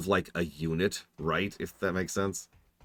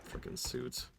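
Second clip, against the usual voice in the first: under-the-breath curse, almost voiceless; muttered aside; 6 semitones higher, 13 dB quieter, slower than usual. Real, not acted. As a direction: hiss it to yourself in disgust. Muttered gripe at suits.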